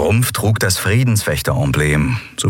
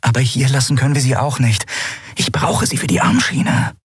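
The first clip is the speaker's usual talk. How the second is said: high-pitched, urgent heroine voice; Endriel, insistent; 7 semitones higher than usual. Acted. Endriel argues against leaving the girl behind, insistent.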